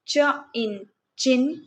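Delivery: slow segmented phonics blend, ch then in then chin; sound-by-sound blending. Shown as a demonstration. Teacher to kids, slowly blending ch-words sound by sound. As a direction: break the word चिन into च, इन, then blend slowly. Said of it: "च sound beginning में है".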